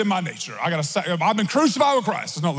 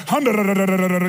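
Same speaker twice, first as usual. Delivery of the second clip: imitating tongues; 3 semitones lower, faster than usual. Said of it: "like an army just started marching".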